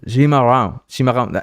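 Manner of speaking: shape chimarrão with a buzzing j onset; careful Portuguese pronunciation. Shown as a demonstration. Streamer demoing the word for a Brazilian viewer, careful. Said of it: "It's like a j".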